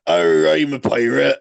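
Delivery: pirate voice. Shown as a demonstration. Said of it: "it's the same voice".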